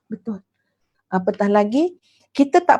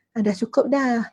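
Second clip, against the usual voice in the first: mildly resigned, level and unexcited; resigned acceptance. Shown as a demonstration. Ustazah showing her listeners the wrong way, resigned. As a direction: say it like settling for just enough. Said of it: "Tak, bukan ayat macam tu".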